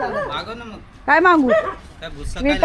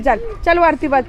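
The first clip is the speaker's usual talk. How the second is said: normal talking voice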